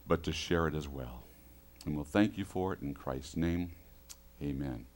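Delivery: soft, low, reverent prayer voice. Acted. Pastor leading the congregation in prayer, soft and low. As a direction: pray quietly for the congregation.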